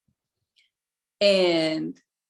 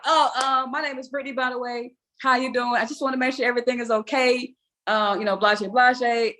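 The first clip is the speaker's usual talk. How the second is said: nervous high voice; 6 semitones higher than usual. Retold or imitated. Retold awkward greeting, higher.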